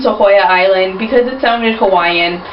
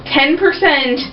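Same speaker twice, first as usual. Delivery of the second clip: slow exasperated explanation; 4 semitones higher, slower than usual. Retold or imitated. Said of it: "I finally just looked at her and said, like".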